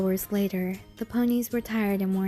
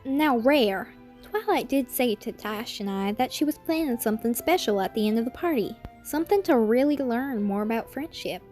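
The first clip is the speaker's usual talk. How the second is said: Applejack voice; 3 semitones higher than usual. Acted. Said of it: "Applejack told Rarity".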